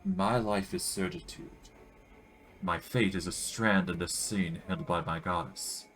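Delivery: a hint of a throaty, accented priestess warning; solemn messenger, only lightly put on; lightly voiced priestess. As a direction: priestess with a faint strange accent. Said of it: "Her voice is throaty and hoarse".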